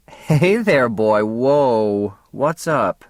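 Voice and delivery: lightly played woman savouring it; Faye's voice. A narrator's reading. Faye voiced in story.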